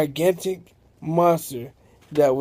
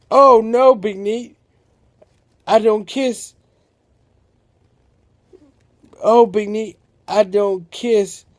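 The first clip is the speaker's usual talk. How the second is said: scared refusal; 3 semitones higher, 4 dB louder than usual. Acted. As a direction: back away from the kiss in fright. Sammy refuses to kiss the giant.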